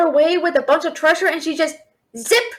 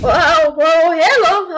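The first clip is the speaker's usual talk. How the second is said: startled; 6 dB louder, much slower than usual. Real, not acted. Suddenly lifted by a dragon.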